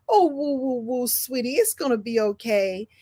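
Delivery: softening motherly soothing; tender retold reassurance; comforting mother. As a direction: imitate a mom consoling a hurt child. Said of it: "what my mother used to say to me".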